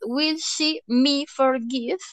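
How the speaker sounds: slow, careful read of "will she me forgive"; deliberate demo of the mistake; wrong word order, read out. Shown as a demonstration. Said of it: "no es correcto escribir".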